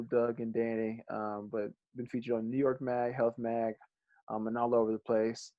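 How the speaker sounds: sponsor read, slowing on the brand name; reading the sponsor copy to listeners; podcast ad spot for Bold Exchange. Acted.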